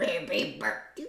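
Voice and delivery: weird, croaking, demonic bird voice. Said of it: "almost demonic sounding".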